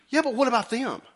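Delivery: high whiny complaint; preacher imitating Peter as a whiny sheep; sheepish whine. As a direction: complain like a sulky kid. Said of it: "it sounds just like a sheep".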